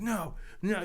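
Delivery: put-on high, protesting "no, no" of a kid under the covers; lightly voiced distressed boy; imitating upset teen. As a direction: push him away like a hurt kid would. Crying teen pushing father away.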